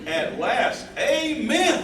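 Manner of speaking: amen thrown up high and loud; joyful amen. Acted. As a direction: cheer it out in relief. Finally accepted proposal.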